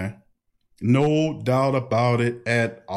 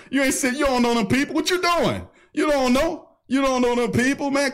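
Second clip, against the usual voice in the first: much higher, amused disbelief; incredulous scolding; 11 semitones higher than usual. Real, not acted. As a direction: scold them, half laughing.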